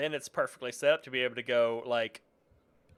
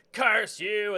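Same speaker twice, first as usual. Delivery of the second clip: dying curse; 9 semitones higher, 6 dB louder than usual. Retold or imitated.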